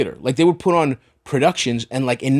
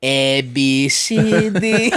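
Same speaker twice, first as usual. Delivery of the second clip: put-on Greek accent; much slower than usual. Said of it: "I went to preschool with an accent".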